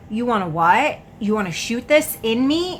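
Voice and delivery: incredulous questions, rising at the ends; retold disbelief. Woman to friend offering to inject her, incredulous.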